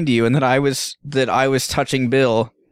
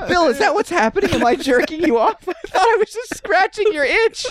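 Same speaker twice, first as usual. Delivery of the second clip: high mock-bewildered questions; confused. To Bill, a high mock-bewildered plea. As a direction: ask in wide-eyed confusion.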